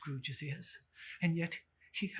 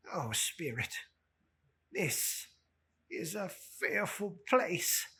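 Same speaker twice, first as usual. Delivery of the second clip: frightened Scrooge; 4 semitones higher than usual. Acted. Scrooge begs the Spirit to leave, hushed.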